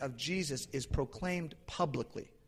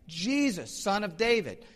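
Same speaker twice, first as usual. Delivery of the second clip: mildly acted cry, raised in pitch; 6 semitones higher, 4 dB louder than usual. Blind beggar calls to Jesus passing by, lightly acted crying out. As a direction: call out higher and a little louder, lightly acted. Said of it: "he's crying out".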